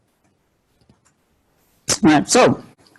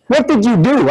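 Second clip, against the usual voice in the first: accusing mother; 5 semitones higher than usual. Retold or imitated. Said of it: "She just said".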